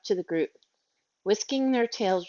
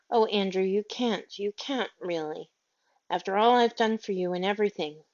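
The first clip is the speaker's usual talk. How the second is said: nearly weeping. Acted. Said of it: "Miss Lark was nearly weeping".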